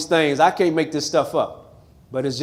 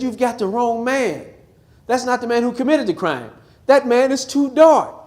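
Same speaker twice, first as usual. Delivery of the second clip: witness's voice; 6 semitones higher than usual. Retold or imitated. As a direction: voice the witness insisting they have the wrong man. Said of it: "She said".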